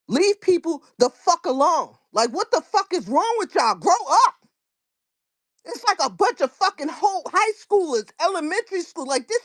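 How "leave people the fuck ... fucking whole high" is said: angry scold. Real, not acted. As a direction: tell the whole room to grow up. Scolding the whole space.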